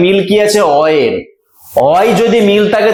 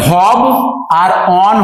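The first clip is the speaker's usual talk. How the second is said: "ভব", a pause, then "অন"; split into syllables. Shown as a demonstration. Teacher breaks a word into syllables, split apart. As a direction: sound out "ভব" and "অন" as two separate units. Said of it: "ভবন শব্দটিকে যদি আমরা দলে ভাঙতে পারি".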